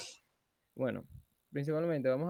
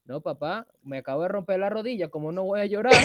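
put-on boy protesting; 4 semitones higher, 9 dB louder than usual. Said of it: "si ese chamo lloraba".

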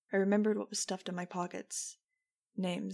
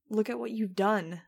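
angry shout; 3 semitones higher, 6 dB louder than usual. A narrator's reading. Max confronting Jeb.

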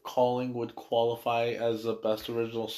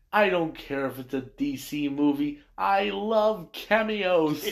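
drawn-out cameo line; 5 semitones higher, slower than usual. Retold or imitated. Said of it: "he comes back and he goes".

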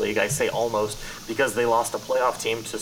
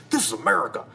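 hammed-up Boston accent, pitched up and louder; terrible Boston accent; 7 semitones higher, 5 dB louder, faster than usual. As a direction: play a Boston attorney with a deliberately bad Boston accent. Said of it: "so I know that's a terrible accent".

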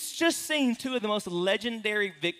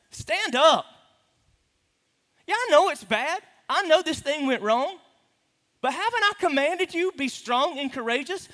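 higher, louder firm voice of God; God's firm command; 8 semitones higher, 4 dB louder than usual. Acted. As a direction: command him to get up, firmly. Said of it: "God ever talked to you like that?".

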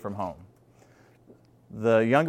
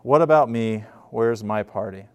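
louder demand; 2 semitones lower, 4 dB louder than usual. Retold or imitated. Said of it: "He says".

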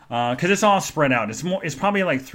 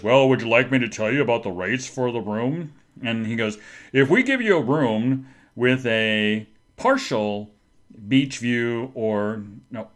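hotel clerk; 2 semitones lower than usual. Retold or imitated. Imitates hotel clerk quoting room rates.

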